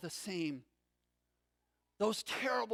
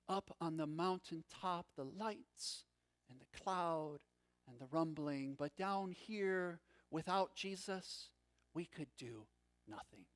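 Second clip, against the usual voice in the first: hushed despair; 5 semitones lower, 6 dB quieter than usual. A narrator's reading. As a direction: lower and softer, dying away on the last word.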